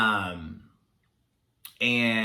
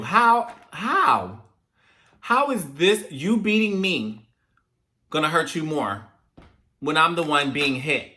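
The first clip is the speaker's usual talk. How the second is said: higher-pitched mock protest, drawn out in places; incredulous retort; 5 semitones higher, 3 dB louder, slower than usual. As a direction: play a kid baffled by a parent's logic. Acted child's retort to punishing parent.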